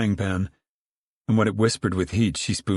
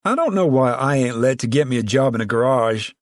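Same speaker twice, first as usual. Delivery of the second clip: a mild angry grumble, pitched higher; 4 semitones higher, 4 dB louder than usual. Acted. Al resents being kept from garage work, angry grumble. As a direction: grumble it like a resentful young man held back. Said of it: "Al grumbled angrily".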